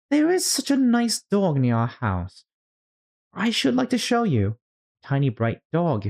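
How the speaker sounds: put-on high, eager girlish chatter; Alice voice. Alice chattering about her dog, high and eager. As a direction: gush about the dog, then catch yourself.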